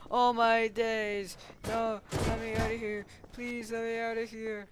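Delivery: high, fast, panicky begging; panicked pleading. Retold or imitated. Trapped kid begging to escape, high panicky pleading. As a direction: plead to be let out.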